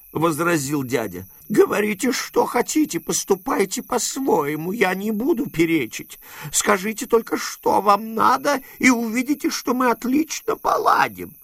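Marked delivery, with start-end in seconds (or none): 1.5-11.3 lightly voiced, higher old man giving way; placating uncle. A narrator's reading. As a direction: soothe him nervously, a touch higher. Дядя уступает. (дядя заискивающе уступает)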